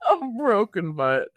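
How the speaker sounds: high-pitched, laughing repeat; laughing echo. Real, not acted. Co-host repeating the guest's dramatic line, laughing. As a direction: echo it back, cracked up with amusement.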